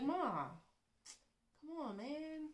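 high, drawn-out mock protest to mom; pleading kid. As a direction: plead with your nagging mother. Voices child pleading with parent.

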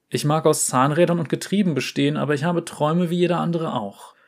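ein Hauch höhere, scheue Jungenstimme; leicht gespielter Porzellanjunge. Acted. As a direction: zaghaft ein Geheimnis gestehen. Fiaram spricht über Träume. (Fiaram gesteht Oriana seine Angst vor der Welt, leicht höher und scheu)

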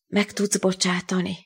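bitter plea. Acted. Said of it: "Olyan volt a hangja, mintha keserű ostya".

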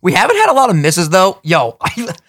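choking on water mid-sentence; sputtering after water went down wrong; coughing up water. Real, not acted. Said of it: "water went down the wrong tube".

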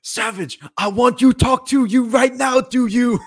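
loud, high slurred singsong; slurring drunk. Retold or imitated. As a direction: slur every word like a drunk. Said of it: "He's going".

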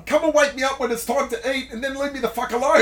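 lightly voiced dad wanting to be left alone; grumpy old dad. Son quoting his elderly dad in hospital, mildly indignant. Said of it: "He's pretty much".

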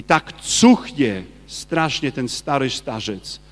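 lightly voiced possessed man, slow and drawn out; a hint of a demon spitting out disgust, slowly; slow demon sneer. Possessed man sneering at the saint's relic, slow mild disgust. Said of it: "Mówi".

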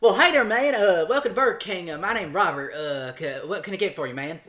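hammed-up Southern fast-food greeter; thick drawling accent. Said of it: "I did the same accent".

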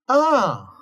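mock-delighted boss greeting Sax; NPC greeting. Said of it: "he's like".

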